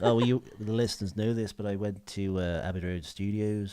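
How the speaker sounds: put-on Liverpool accent, telling studio tales; John Lennon. Lennon recalling Abbey Road sessions, Liverpool accent. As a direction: keep up a mock Scouse impression. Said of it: "I can't say that as John Lennon".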